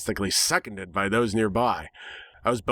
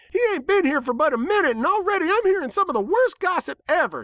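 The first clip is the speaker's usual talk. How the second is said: indignant little filly. A narrator's reading. Apple Bloom defends the stranger to the crowd, high and fierce. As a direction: scold them with righteous indignation. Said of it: "she cried".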